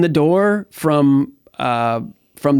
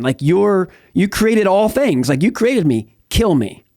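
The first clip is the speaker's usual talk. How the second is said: raised, pleading voice, a mild echo of sobbing; retold desperate plea; 4 semitones higher than usual. Recalling his night of despair to the host, pleading and raised. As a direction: beg God as if still in that garage, but lightly. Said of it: "I'm just bawling my eyes out".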